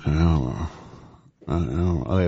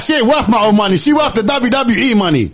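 imitating Vince; 8 semitones higher, 3 dB louder than usual. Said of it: "He's like".

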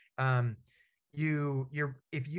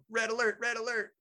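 higher, half-laughing alarm call; mock panic alarm; 9 semitones higher than usual. Man retelling his panic in therapy, mock alarm call. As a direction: sound the alarm in a playful retelling. Hyperventilating in handcuffs, mummy bag.

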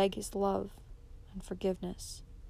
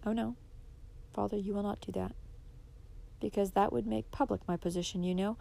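calm, softer steady reply; quiet firmness, no raised voice; quietly; 6 dB quieter than usual. Acted. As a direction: daughter calmly defies her raging father. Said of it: "she replied quietly".

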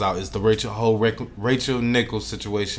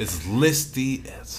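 laughing; slower than usual. Real, not acted. Laughing while speaking.

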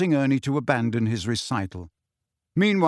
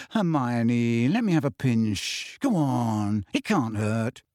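lightly voiced teenage boy, wheedling; Ron coaxing; 3 semitones higher than usual. Ron begs Hermione for a pinch, lightly voiced and coaxing. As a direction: talk her into it, eager and persuasive.

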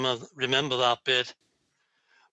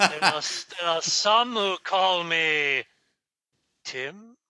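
Tim the Enchanter. Retold or imitated. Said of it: "the name of the enchanter".

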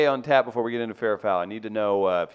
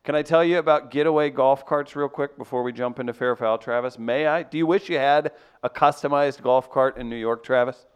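lively sponsor pitch, punching the brand name; radio ad read. Acted. Host pitching golf carts to listeners, upbeat ad read. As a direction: sell it like a live radio ad, stretching out the slogan.

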